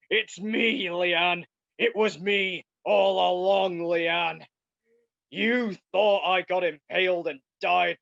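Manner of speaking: mastermind's reveal. Acted. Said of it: "me as the mastermind behind the murders".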